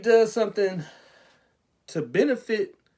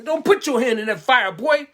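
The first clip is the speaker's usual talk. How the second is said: loud, raised warning from a stern mom; mother warning; 4 semitones higher, 7 dB louder than usual. Acted. Mother warns her boy away from the fire, loud and stern. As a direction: call out to stop the child.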